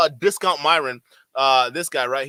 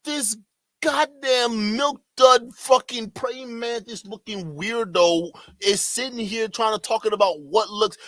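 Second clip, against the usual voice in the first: incredulous rant; 5 semitones higher than usual. Real, not acted. Streamer ranting at debater on clip.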